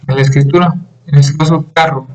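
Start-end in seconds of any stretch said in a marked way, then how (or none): 1.7-2.1 "carro" stressed on CA; stress on first syllable. Shown as a demonstration. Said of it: "decir en dónde se encuentra el acento". ("carro" con acento en la primera sílaba)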